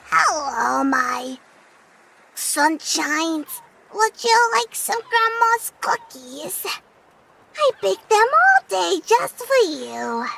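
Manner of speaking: lightly voiced granny, slow; grandma voice. Grandma tempts grandkids with cookies, slow and sweet. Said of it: "I can do a good grandma voice".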